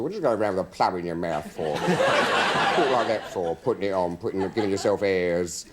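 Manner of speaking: lightly imitated Cockney scolding; Cockney father. Cockney father scolding son for his plummy talk, mock disapproval. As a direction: take off a disapproving Cockney dad. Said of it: "My father was a Cockney".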